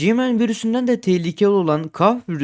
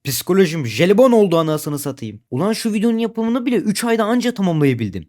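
louder, higher fed-up venting; exasperated rant; 4 semitones higher, 3 dB louder than usual. Real, not acted. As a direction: vent like you're fed up. Exasperated rant about burnout.

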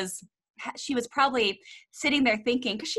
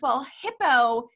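put-on drawn out like a tiny sweet child; sweet three-year-old voice; 3 semitones higher, 5 dB louder, slower than usual. Mother imitating a toddler telling off her toy Hippo, slow and sweet. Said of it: "in this sweet little three-year-old voice".

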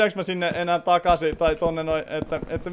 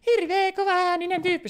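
much higher squeaky cat voice; 11 semitones higher than usual. Pretend. Streamer answers for the cats in a much higher kitten voice. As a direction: mew like a tiny cartoon kitten.

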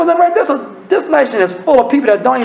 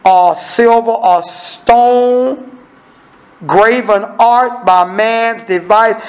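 scripture reading. Acted. Reads scripture aloud.

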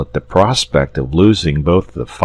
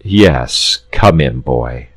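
lower, kindly saint; a touch of kindly warmth; 3 semitones lower, slower than usual. Acted. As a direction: welcome him gently. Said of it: "said the saint kindly".

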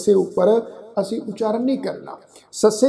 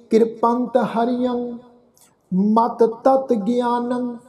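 slow recitation; 2 semitones higher, much slower than usual. Shown as a demonstration. Recites verse slowly.

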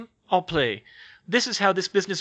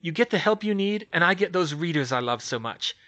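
louder, self-satisfied pitch; smug; 4 semitones higher, 5 dB louder than usual. Acted. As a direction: savour the plan. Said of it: "she said smugly".

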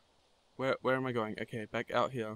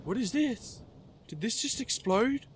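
startled; 8 semitones higher than usual. Real, not acted. Sudden explosion startles her.

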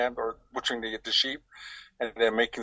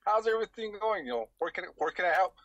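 mock cheerful self; 6 semitones higher than usual. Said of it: "I go chafing through".

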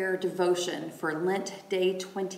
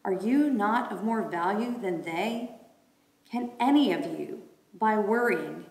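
raised, proclaiming reading voice; scripture reading. Acted. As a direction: read it out like a lesson.

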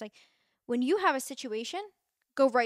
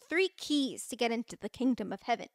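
mock solemn. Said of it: "I'm joking".

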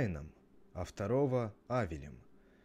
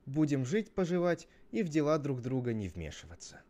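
lightly acted character voice, pitched up; storybook brother laying out terms; Cain making an offer; 5 semitones higher than usual. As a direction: propose the deal in a raised, lively voice. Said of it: "Тогда Каин говорит".

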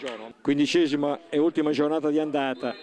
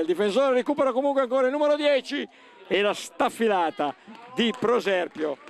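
rising, urgent match call; sudden burst of live commentary; excited commentary; 4 semitones higher than usual. Real, not acted. Live play-by-play surge.

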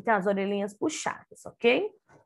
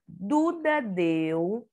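slow reading aloud; much slower than usual. Shown as a demonstration. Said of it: "D, D, U, deu".

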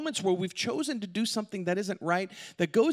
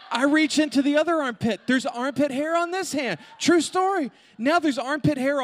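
higher and louder, breaking into laughter; amused disbelief at the story; laughing through it; 8 semitones higher, 4 dB louder than usual. Real, not acted. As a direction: laugh as you tell it. Laughing at his own mishap.

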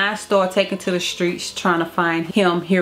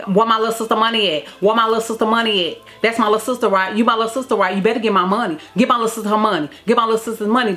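quick, repetitive demands, lightly acted; imitating son arguing; much faster than usual. Son arguing with people on the TV, mildly imitated demands. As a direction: lightly mimic a one-sided argument. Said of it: "he would be arguing with the people".

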